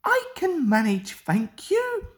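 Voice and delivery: high, fast, haughty brush-off; snippy reply. A narrator's reading. Mavis haughtily refusing Toby's warning. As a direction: toss it back high and quick. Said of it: "she replied".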